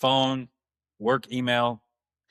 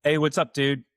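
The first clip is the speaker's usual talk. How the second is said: engaged, friendly greeting. Shown as a demonstration. Dad turning to greet his daughter, open and welcoming. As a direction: greet her like she's the best interruption. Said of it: "turn my face to her and go".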